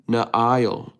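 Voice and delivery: "Nail" split into nuh-EYE-ul; three-syllable pronunciation. Shown as a demonstration. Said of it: "It's three syllables?".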